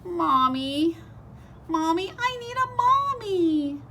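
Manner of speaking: high, loud crying wail. Acted. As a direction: wail for a mommy like a sad chick. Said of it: "he started to cry".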